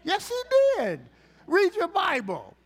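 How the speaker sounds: loud insistent preaching; preaching shout. Real, not acted.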